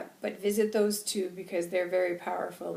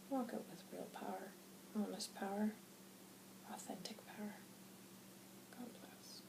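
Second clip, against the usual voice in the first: hushed, soft channelled sermon with long pauses; calm spirit guide; 11 dB quieter than usual. Acted. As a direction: counsel little ones very quietly, fading toward near-whisper.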